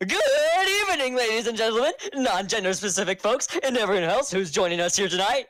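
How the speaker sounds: lightly voiced cartoon character; a hint of the Albert character. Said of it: "in the Albert voice".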